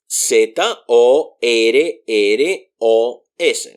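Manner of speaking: Z O R R O S spelled slowly, R R said separately; slow spelling. Shown as a demonstration. Teacher spelling the word letter by letter for the class. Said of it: "spell them out individually".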